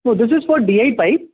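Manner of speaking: normal talking voice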